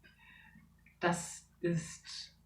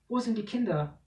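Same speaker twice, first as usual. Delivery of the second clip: mother calling out, higher and anxious; frantic for her children; worried call; 5 semitones higher, 4 dB louder than usual. Acted. Mother searching for her missing children, worried. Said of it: "ruft Daras Mutter besorgt".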